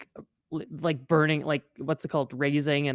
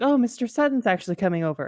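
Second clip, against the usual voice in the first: posh voice; 4 semitones higher, faster than usual. Retold or imitated. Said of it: "extremely posh voice that they have".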